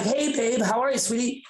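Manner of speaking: high-pitched doting mother voice; sweet mom. Retold or imitated. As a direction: imitate a sweet mom greeting her kid. Mom greets her son.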